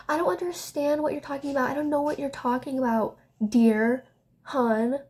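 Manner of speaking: mocking, patronizing friend voice; condescending imitation. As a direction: imitate her talking down to you like a toddler. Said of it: "treated me like I was, like, the stupidest person".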